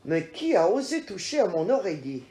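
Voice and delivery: fast, mildly gruff bear; a hint of a grumpy father bear; papa bear grumbling. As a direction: grumble it quickly like a big bear. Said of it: "papa ours gronde".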